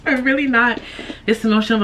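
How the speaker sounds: high laughing through tears; teary laugh. Real, not acted. Laughing at own tears for viewers. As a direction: laugh it off while emotional. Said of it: "guys, I'm on my cycle".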